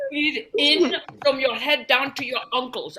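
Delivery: slow, lightly put-on soothing guide; a mild parody of a meditation tape, drawn out. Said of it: "She's like".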